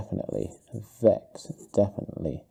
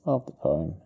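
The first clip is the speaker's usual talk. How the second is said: murmured dictation; 5 dB quieter, slower than usual. Real, not acted. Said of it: "I'm gonna put this".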